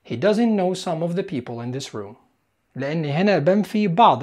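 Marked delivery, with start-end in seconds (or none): 0.1-2.1 slow model sentence. Shown as a demonstration. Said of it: "هقولها بالإنجليزي".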